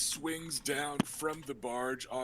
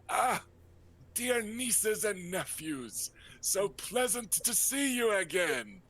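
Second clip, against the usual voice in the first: flamboyant uncle; 7 semitones higher than usual. Acted. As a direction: sweep it out like a vain dandy.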